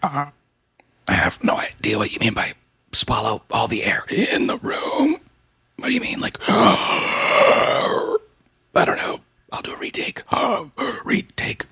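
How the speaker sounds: hushed whisper so nobody wakes; breathy late-night whisper. Real, not acted. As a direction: whisper it at one thirty in the morning. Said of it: "I can't get too loud here".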